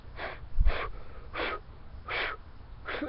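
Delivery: a long steady breath from the diaphragm. Shown as a demonstration. Demo of the right way to breathe into a call. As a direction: show the right breath, cheeks held in. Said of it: "breathe from your diaphragm and go".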